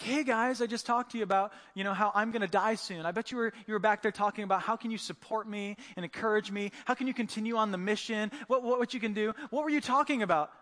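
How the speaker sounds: playing Jesus calling out his friends, mock annoyed; mildly ticked off. Jesus calling back to his friends, lightly irritated. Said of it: "you'd be a little ticked off".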